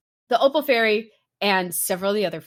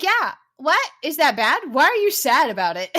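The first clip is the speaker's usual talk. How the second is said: naive fairy; 6 semitones higher, 4 dB louder than usual. Retold or imitated. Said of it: "And she's like".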